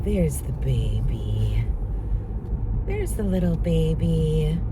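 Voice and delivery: tender murmur to the pet; cooing to dog. Real, not acted.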